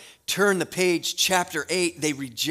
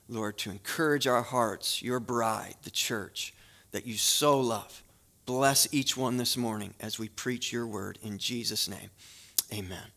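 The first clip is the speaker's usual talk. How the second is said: lower, measured praying voice; prayer; 4 semitones lower than usual. Real, not acted. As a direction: pray on behalf of the congregation. Leads the congregation in prayer.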